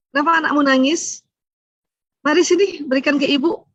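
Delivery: lightly acted eager, caring mother; birth mother's concern. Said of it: "Coba ibu kandung".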